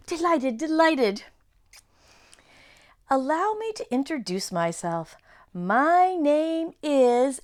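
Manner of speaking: high flustered faun; flustered fawn. Acted. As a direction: bluster like a nervous faun. Fawn dialogue.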